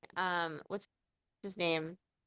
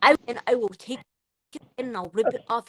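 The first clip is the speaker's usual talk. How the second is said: mock Russian threat; put-on aggressive Russian; aggressive Russian accent; 3 semitones higher, 4 dB louder than usual. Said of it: "was fucking aggressive".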